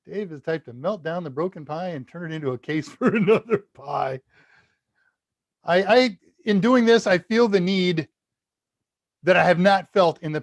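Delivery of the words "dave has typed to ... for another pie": reading aloud with a chuckle breaking in; amused reading. Real, not acted. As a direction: let a laugh slip in as you read. Amused reading of chat message.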